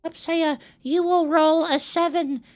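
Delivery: high, squeaky-pitched voice of the dice; put-on high dice voice, evenly measured; talking dice. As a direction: speak as magical dice giving orders. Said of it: "They're speaking to me".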